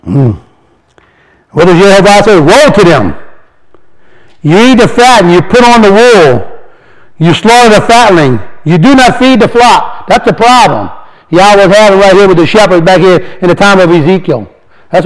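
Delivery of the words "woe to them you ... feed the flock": slow, solemn reading of scripture. Acted. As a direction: read the verse like a proclamation. Reads scripture aloud.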